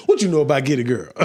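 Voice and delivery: laughing mock old-timer; old person voice. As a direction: tease like a grumpy elder. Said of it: "You sound like an old person".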